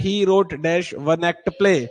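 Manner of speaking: very slow, each word apart; slow dictation. Shown as a demonstration. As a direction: read slowly for the class. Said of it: "teacher reads exercise slowly". (धीमे-धीमे पढ़ना)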